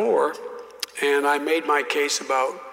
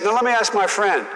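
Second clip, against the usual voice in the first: higher, louder mock Southern senator; folksy senator explaining; 6 semitones higher, 4 dB louder than usual. Senator lecturing the young colleague on oil wells, hammed-up. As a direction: patiently explain like an old senator. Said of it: "and he said".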